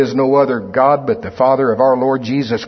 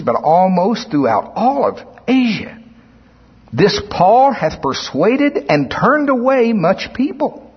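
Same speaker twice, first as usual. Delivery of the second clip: declamatory scripture reading; 3 semitones higher than usual. Acted. Craftsman rallying his fellow workmen against Paul, declamatory. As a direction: read out a speech with rising emphasis.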